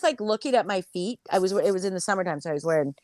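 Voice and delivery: usual speaking voice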